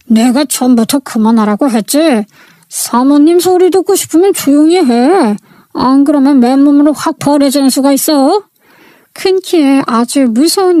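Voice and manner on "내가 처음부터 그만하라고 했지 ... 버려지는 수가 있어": a touch of cold menace in a retold threat; understated menacing warning. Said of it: "살기 가득한 말투로".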